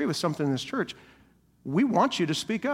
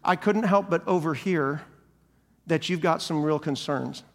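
gentle confrontation; 3 semitones lower than usual. Pretend. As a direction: ease into it like a caring friend. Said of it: "we do it in love".

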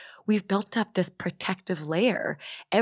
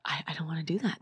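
whispered fear; 6 dB quieter, faster than usual. Real, not acted. Fearful inner thought.

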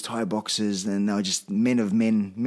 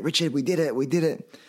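retold celebrating; 4 semitones higher than usual. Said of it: "to celebrate".

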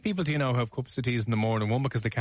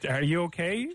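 mock waitress; 3 semitones higher than usual. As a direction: play a baffled waitress, lightly. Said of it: "These waitresses are just looking at you going".

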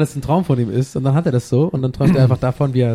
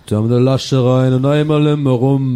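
put-on Cologne accent; 2 semitones lower than usual. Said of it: "Oder man macht so Kölsche".

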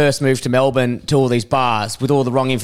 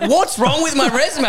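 high, baffled question; confused; 11 semitones higher than usual. Retold or imitated. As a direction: ask it genuinely puzzled. Confused retold self.

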